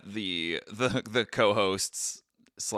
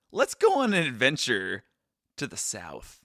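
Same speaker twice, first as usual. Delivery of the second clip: put-on Southern accent; 3 semitones higher, 4 dB louder than usual. To co-host, launching the trip in a mock Southern accent. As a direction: announce the trip in a jokey Southern voice. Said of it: "this little accent that you just threw out".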